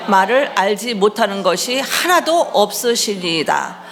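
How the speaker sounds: measured, even recitation of a psalm; scripture reading. Acted. Pastor leading the congregation in a psalm, formal recitation. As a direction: read the verse out for a congregation.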